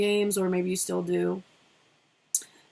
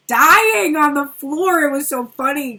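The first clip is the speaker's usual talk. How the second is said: laughing; 6 semitones higher, 10 dB louder, slower than usual. Real, not acted. Recalling laughing at son's video.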